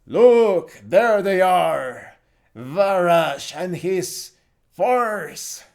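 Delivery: loud, drawn-out warning yell; Cruz. Acted. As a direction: call out high and slow to the party. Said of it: "Cruz points towards the northeast and yells".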